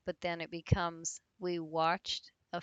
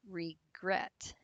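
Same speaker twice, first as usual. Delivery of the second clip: regret split slowly, weight on -gret; stress on last syllable. Shown as a demonstration. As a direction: say regret carefully, stressing the end. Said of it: "the stress is on".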